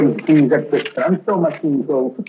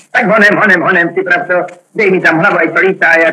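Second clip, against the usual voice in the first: quick, louder, higher urging; urgent hurry; 3 semitones higher, 4 dB louder than usual. Acted. Condemned man hurrying his friend, urgent and loud. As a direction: rush him along, impatient.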